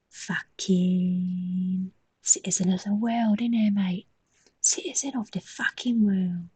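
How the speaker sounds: put-on drawn-out London accent, all over the place; wandering London accent. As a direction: ham up a wobbly London accent, stretching the words. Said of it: "That went all over the place".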